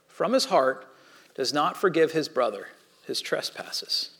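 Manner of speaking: measured, steady Bible reading to the congregation; scripture reading. Acted. Pastor reading Jesus' parable to the church, measured. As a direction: read the parable plainly and deliberately.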